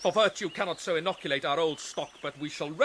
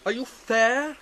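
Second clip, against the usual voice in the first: mocking challenge; 6 semitones higher, 5 dB louder, slower than usual. Hamlet confronts Ophelia.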